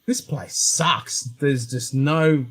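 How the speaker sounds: slow, soft, deflated complaint; glum disappointment. Retold or imitated. Returning traveller sulking about home, slow and deflated. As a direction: drag it out like everything is dull. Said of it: "came back to Australia and went".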